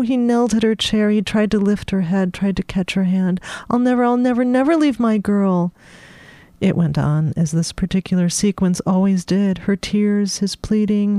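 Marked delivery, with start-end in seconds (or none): 3.7-5.7 earnest promise. Acted. Mikey promising tearfully.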